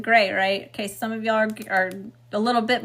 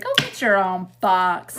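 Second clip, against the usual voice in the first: relayed spirit message; 2 semitones lower, 4 dB louder than usual. Retold or imitated. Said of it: "That's what I just heard".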